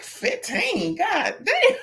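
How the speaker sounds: high, startled mock disbelief; shocked exclamation. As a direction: squeal it like he can't believe the number. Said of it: "your husband was like".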